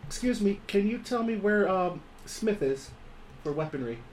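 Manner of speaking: random voice. Acted. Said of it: "Random voice".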